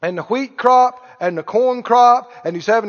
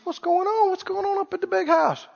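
mild quote; 7 semitones higher, 5 dB quieter than usual. Acted. Older son voiced in parable.

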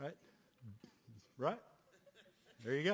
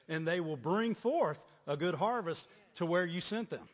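emphatic preaching, building louder toward the close; 3 dB louder than usual. Real, not acted. Preacher assuring the church of a faithful God, emphatic preaching. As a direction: drive each phrase home like a preacher.

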